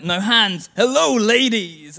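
put-on loud cocky call to girls; showing off. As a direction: shout it like a show-off kid on a bike. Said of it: "he was like".

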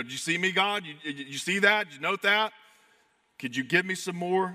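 acted needy appeal for approval; eager pleading. Believer straining to earn God's notice, eager pleading.

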